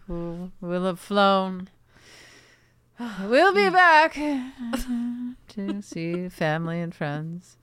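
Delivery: slow, solemn poet recital; dramatic poetry reading. Pretend. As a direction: intone it like a pompous poet. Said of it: "went into this character".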